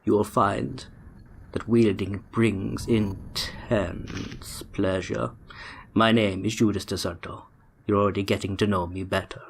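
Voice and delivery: a lightly voiced sinister tempter, sinking to a whisper; copying the villain's voice. Streamer reads the villain's letter in a lightly put-on villain voice. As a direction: play the smooth villain reading his letter, only half in character. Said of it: "I don't know what this voice is either".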